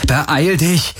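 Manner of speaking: high, urgent call to hurry. A narrator's reading. Garland urging Kirai to hurry, high urgent call. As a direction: push her to hurry, high. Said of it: "rief Garland".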